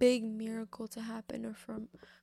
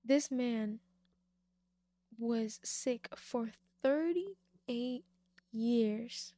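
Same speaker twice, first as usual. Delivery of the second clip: "thirty-eight" drawn out very slowly and louder; slow emphasis; 4 dB louder, much slower than usual. Real, not acted. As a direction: stretch "thirty-eight" so it lands heavily. Preacher stressing the long illness.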